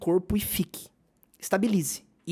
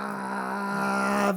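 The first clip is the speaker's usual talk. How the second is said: long, steady held "aah"; drawn-out aah; 4 dB quieter than usual. Retold or imitated. Speaker imitates a life going on wrong, drawn-out aah. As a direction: hold one unbroken aah on a level note.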